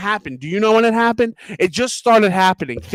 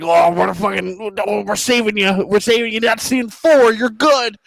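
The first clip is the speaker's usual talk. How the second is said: raised, put-on voice of someone selling a deal; lightly mocking, pitched up as it goes; mock salesman pitch; 4 semitones higher than usual. Comic imitating businesses that boast of their savings, mock sales pitch. Acted quote of card-fee apologists.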